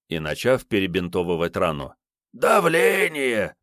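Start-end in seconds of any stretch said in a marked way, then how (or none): 2.3-3.6 high, slow mocking echo of the word; mocking mimicry. Kiryay mocking Sergey's guess, slow high mimicry. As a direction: throw his guess back at him. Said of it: "передразнил Киряй".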